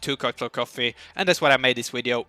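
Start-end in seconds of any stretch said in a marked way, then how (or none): 1.2-2.2 rushed, wired delivery; too much caffeine. Real, not acted. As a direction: talk fast on coffee jitters. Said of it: "I'm really speeded up here".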